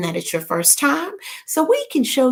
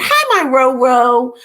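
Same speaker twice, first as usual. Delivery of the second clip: louder, slow hi with a changed voice; excited greeting; 4 semitones higher, 6 dB louder, slower than usual. Real, not acted. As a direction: sing out the greeting to Roro.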